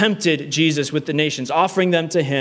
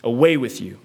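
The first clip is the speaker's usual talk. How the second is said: Jesus' firm rebuke; 5 semitones lower than usual. Acted. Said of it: "this time he goes on the attack".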